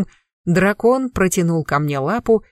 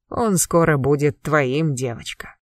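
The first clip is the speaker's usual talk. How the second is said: dragon voice; 3 semitones lower than usual. Acted. Dragon answers, slow and deep.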